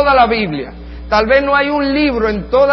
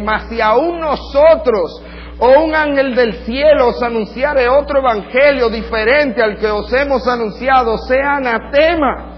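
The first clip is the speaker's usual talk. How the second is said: slow, loud, higher pronouncement; solemn curse; 6 semitones higher, 4 dB louder, slower than usual. Retold or imitated. Preacher reading Paul's double curse to the congregation, slow and loud. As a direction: thunder out the curse.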